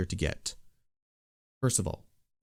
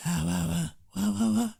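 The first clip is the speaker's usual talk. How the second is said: whispered bass; 10 semitones higher than usual. Shown as a demonstration. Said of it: "I typically do it with my whisper voice".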